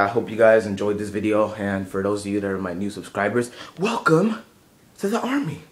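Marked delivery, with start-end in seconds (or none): 3.8-5.6 much higher, exaggerated greeting; high playful welcome. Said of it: "It's like, nah".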